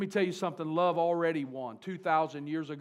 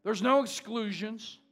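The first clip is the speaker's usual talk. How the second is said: higher, louder, slow and drawn out; preaching full force; 5 semitones higher, 6 dB louder, slower than usual. Real, not acted. Preacher driving home no exclusions, slow and loud. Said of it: "preaching at full force".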